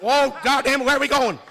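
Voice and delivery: dazed surprise. Retold or imitated. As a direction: play a woozy guy who can't see straight, startled. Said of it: "You be like".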